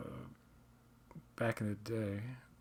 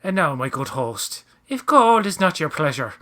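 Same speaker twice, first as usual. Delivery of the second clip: mock villain line; 3 semitones higher, 7 dB louder than usual. Quoting the leprechaun-like character.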